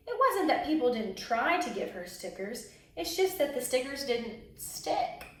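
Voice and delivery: lively storybook narration; expressive picture-book reading; reading to children. A narrator's reading. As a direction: read it like a children's story time. Reads a picture book aloud.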